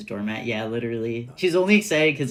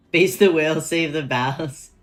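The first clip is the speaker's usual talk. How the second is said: excited shout; 4 semitones higher, 6 dB louder than usual. Real, not acted. Excited quip at the game.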